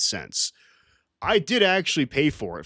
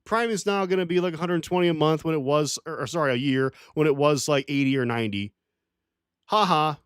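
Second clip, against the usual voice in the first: mocking smug company; 3 semitones higher than usual. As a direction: sneer it like a smug company gloating over customers. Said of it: "Amazon literally told them".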